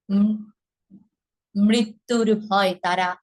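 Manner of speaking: slow, measured poetry recital with long pauses; poem recitation. Shown as a demonstration. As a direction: recite the poem line by line, unhurried.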